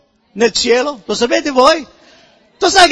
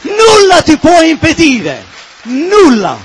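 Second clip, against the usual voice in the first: preaching at full force; 3 semitones higher, 4 dB louder than usual. Real, not acted. Pastor leading the church in a loud shouted proclamation. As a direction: proclaim it to rouse the congregation.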